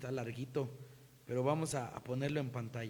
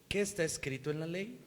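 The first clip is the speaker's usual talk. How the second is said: meek. Shown as a demonstration. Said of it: "no con un espíritu de orgullo, sino de mansedumbre".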